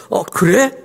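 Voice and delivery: sermon mocks an easy-going God; breezy mock God. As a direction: play a flippant genie-like God. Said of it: "이렇게 설득하지 않으시고".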